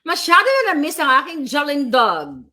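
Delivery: jokey mock-glamorous voice; playful put-on voice. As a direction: repeat the boast as a joke. Playful repeat of own boast.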